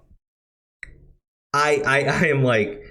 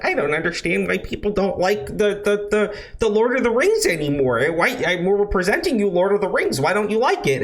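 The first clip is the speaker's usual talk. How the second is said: mocking the showrunners; 4 semitones higher than usual. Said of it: "the people on this show are like".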